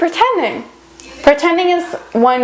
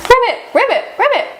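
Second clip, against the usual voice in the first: frog croak; 9 semitones higher, faster than usual. Pretend.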